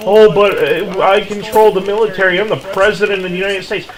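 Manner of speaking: dismissive imitation, speeding up at the end; mocking the president. Streamer mocking the president's excuse, sneering imitation.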